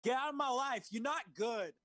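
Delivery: high, slightly loud Tommy quote; imitating Tommy's odd delivery; quoting Tommy. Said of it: "he says this line".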